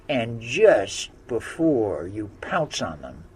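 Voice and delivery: loud, scheming witch voice; a witch commanding her wolf; witch giving orders. Acted. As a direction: plot it out like a wicked witch.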